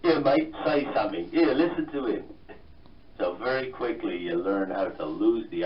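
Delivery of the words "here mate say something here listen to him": high, loud mock Cockney taunt; Cockney tough kids. Guest mimics tough classmates holding him against the wall, Cockney accent. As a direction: imitate Cockney schoolboys goading the new kid, loudly. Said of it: "working class Cockney school".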